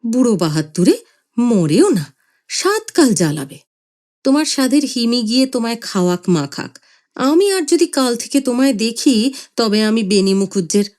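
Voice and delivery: mild angry scolding; wife venting at the old man; a touch of fury. Acted. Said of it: "মা রাগ করে বলে উঠলেন".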